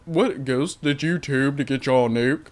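lightly put-on fancy British accent; fancy British man. Viewer wondering how Ghost got his nuke, lightly mocked fancy British accent. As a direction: play a hint of a fancy British gentleman. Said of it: "a fancy British man".

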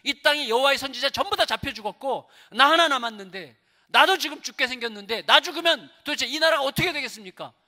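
high, loud protest to God; acted, agitated tirade; angry Elijah. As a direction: vent bitter disappointment at God. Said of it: "막 화를 내는 거예요".

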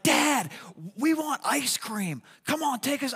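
put-on high, slow pleading child's voice; whiny kid. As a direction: nag Dad for ice cream like a kid. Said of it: "if my other kids would have been like".

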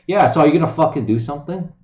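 loud, fast exasperated demand; angry demand. Real, not acted. Streamer angrily demands action from Trump, loud and fast. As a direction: snap it at him, fed up.

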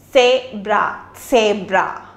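zebra starting with ts, tsebra; sharp ts at the start of zebra; teacher models the word; German Zebra. Shown as a demonstration. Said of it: "additional stress to the word set".

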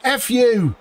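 high loud swear at the screen; real furious curse; angry outburst. Real, not acted. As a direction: spit it out in fury. Goal disallowed rage.

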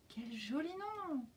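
soft, slow, tender; gentle and slow. Acted. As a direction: say it softly in wonder. The ladybug answers gently.

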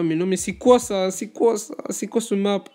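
normal talking voice

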